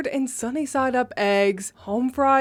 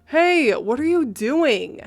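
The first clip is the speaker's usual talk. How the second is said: demanding; 3 semitones higher, 3 dB louder, slower than usual. Retold or imitated. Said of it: "I demanded".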